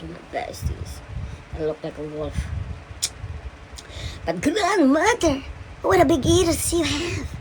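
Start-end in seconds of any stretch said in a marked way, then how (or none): 4.2-7.3 put-on very high little-girl storybook voice; Little Red Riding Hood. A narrator's reading. Red Riding Hood questions the disguised wolf, very high girlish voice. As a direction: squeal it in a tiny, high girl's voice. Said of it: "said little Red Riding Hood".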